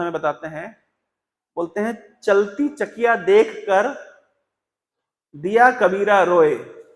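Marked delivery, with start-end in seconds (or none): 2.2-6.8 slow verse recital. Acted. Reciting Kabir's doha.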